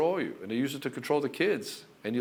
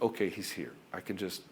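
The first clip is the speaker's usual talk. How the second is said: softer, lower, settling down; relaxed relief; 4 semitones lower, 6 dB quieter than usual. Retold or imitated. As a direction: imitate a wife letting herself relax. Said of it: "she can relax".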